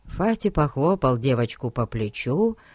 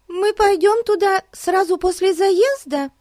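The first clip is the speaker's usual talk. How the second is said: put-on young girl voice; 4 dB louder than usual. Betsy asks, girl voice.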